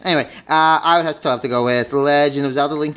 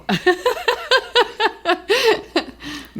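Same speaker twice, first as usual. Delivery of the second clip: high laugh. Real, not acted. Laughs at own joke.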